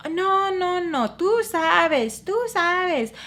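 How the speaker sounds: high, insistent Spanish scolding; super annoyed. Retold or imitated. Host rejecting the guest's apology, super annoyed. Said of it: "And is, like, super annoyed".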